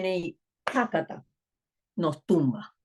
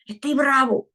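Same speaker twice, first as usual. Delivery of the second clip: put-on child's voice; 7 semitones higher, 4 dB louder than usual.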